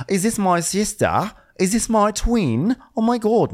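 high-pitched, gushing mimicry of a crewmate; hammed-up, high imitation; excited Australian stew. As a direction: squeal it as a mock-astonished sister. Retelling Natalia meeting Natasha, mimicked.

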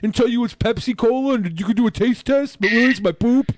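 lightly put-on nasal character voice; Rodney Whitaker voice. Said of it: "you sound like Matt, Monday Matt's character, Rodney".

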